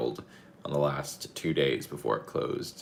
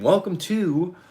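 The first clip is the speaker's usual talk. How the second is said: excited; 12 semitones higher, 5 dB louder, slower than usual. Real, not acted. Same welcome restarted.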